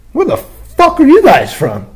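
high, slow hammed-up holler; mock flirty hello; bro greeting.

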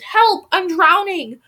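very high panicked cry; screaming. A narrator's reading. Nightmare-stricken Emma screams she is drowning. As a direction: shriek it in terror. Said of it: "she screamed".

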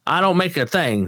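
half-hearted huckster whine; Baby Billy line. Retold or imitated. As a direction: stress on don't, lightly voiced. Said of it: "Baby Billy?".

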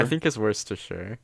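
Worcestershire said as WUSS-ter-sher, r sounded; suggested pronunciation. Shown as a demonstration. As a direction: offer "Worcestershire" tentatively with American r-sounds. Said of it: "Apparently, it's, like".

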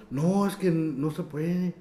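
slow, stretched-out vendor's refusal; drawn-out refusal. Retold or imitated. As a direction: imitate a vendor saying no, dragging it out. Recrea la negativa del vendedor. (negativa alargada, imitando al vendedor)

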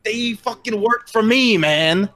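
high, indignant goblin protest; irate goblin. Acted. Goblin whose workers were killed, high and irate. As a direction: squeal it high, outraged at the loss. Angry goblin argues with party.

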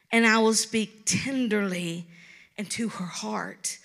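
tender, loving reading. Retold or imitated. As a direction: read it gently, like God wooing his beloved. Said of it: "his tone is the tone of someone in love".

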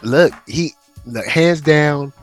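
normal talking voice

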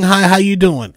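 cool, dismissive "Hi, how you doing?"; condescending hi. Shown as a demonstration. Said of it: "don't give that condescending".

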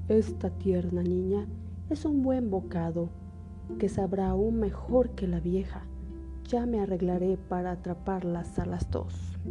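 wolf voice. Acted. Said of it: "El lobo pensaba en su interior".

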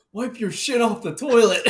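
reads the sign out high and loud through laughter; cracking up while quoting the toilet sign; laughing quote. Retold or imitated. Laughing at the old sign to his friend, loud and giggly.

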